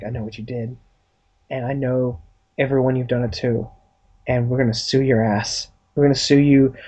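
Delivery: low, measured threat, acted; dark confrontation. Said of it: "very dark, witty".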